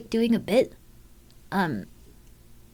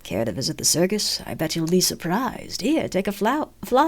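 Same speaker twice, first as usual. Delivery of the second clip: a hint of a creepy carnival clown. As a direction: tempt them like a creepy clown. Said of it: "I have one clown voice".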